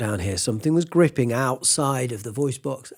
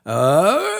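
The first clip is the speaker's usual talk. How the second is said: strained cry; 4 dB louder than usual. Shown as a demonstration. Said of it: "something engages there".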